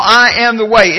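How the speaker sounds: "I am the way" with the first words firmly weighted; emphasis on I am the way. Shown as a demonstration. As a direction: lean into "I am the way" as a proclamation. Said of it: "it receives emphasis".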